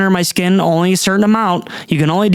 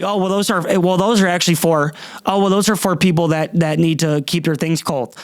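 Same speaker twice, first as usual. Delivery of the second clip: inconvenienced clerk. Retold or imitated. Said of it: "he said it like ... an inconvenience to him".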